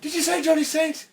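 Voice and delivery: suspicious cop. Acted. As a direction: pounce on the name like the cop. Cop reacts to wrestler name.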